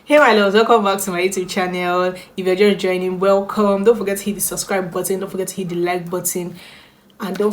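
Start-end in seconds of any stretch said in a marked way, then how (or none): 0.0-2.1 energetic intro. Real, not acted. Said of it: "Why do I have so much energy".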